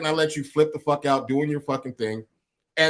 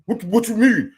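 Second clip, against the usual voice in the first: imitating co-host, higher and excited; 5 semitones higher than usual. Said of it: "You were like".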